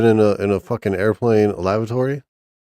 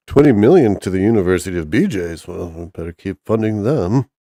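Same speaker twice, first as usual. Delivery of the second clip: a light, odd put-on accent, not really like him; a half-hearted weird-accent Elon impression. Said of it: "That's, that's a weird accent".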